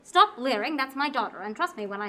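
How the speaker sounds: stern mother telling him off; sharp scolding. Acted. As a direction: snap at him to stop. Mother scolds leering hunter.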